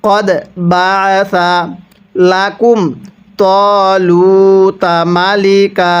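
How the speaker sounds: very slow, drawn-out tajweed chant; slow Quran recitation. Shown as a demonstration. Teacher shows the class how to recite, slow measured chant. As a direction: recite each syllable long and even. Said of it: "এরকমভাবে শিখব".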